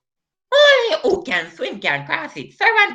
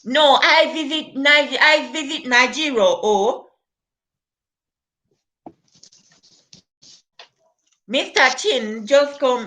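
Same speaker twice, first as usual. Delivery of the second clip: put-on evenly pitched comic Nigerian accent. Comedian telling of going to Nigeria, put-on Nigerian accent. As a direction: put on Nigerian Pidgin with a tagged-on "oh". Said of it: "I'm not sure if it's Nigerian".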